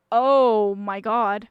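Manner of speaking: long aghast oh my god; drawn-out shock. Real, not acted. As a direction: let it stretch in horror. Horrified reaction.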